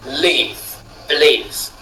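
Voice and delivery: believe with live stressed, the be barely said; last-syllable stress. Shown as a demonstration. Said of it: "mais le live de la fin". (believe accentué sur live)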